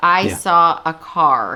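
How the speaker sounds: very slow American accent, strong r in 'car'. Showing how american english pronounces the r: american accent, clearly pronounced r. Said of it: "we clearly pronounce the R".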